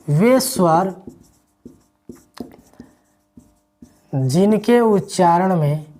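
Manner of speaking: slow, spaced dictation; dictating word by word. Shown as a demonstration. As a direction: dictate slowly for note-taking. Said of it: "तो इसको देखेंगे".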